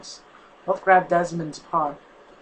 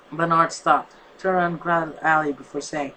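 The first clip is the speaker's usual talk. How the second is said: ordinary delivery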